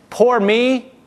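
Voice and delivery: high whining poor me; whiny self-pity. Retold or imitated. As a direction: whine it like a sulky victim. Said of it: "the whine in their voice".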